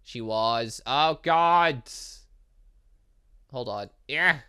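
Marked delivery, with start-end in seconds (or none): none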